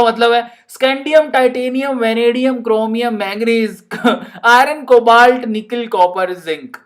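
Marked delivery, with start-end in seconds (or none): none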